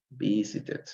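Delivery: "visited" in three syllables, softly modelled; last syllable pronounced. Shown as a demonstration. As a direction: sound the final -ed of "visited" as its own syllable. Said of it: "se pronuncia la tercera, la última sílaba".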